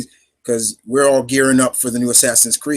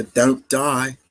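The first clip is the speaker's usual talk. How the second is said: lightly imitated Cockney; a hint of Cockney accent; brief mock Cockney quote; Frye sister impression. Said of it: "you hear the sister".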